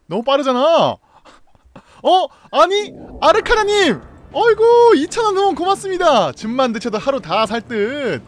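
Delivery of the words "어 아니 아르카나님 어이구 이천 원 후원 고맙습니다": much higher, louder excited thanks; delighted surprise. Real, not acted. Streamer thanking a viewer for a surprise donation, excited. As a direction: burst out happily at the donation.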